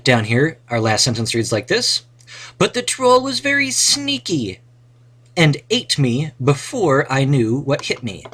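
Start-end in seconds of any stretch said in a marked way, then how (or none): 2.6-8.2 high, bright storybook hero reading; adventurer voice. Acted. Teacher reads the adventure sentence to the class in a high hero voice. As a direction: read it like the hero telling his own tale.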